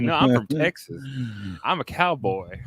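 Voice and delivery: put-on lightly childlike insistence; a hint of a stubborn four-year-old; little kid. Host as small child insisting to family, light kid voice. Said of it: "But I'm like".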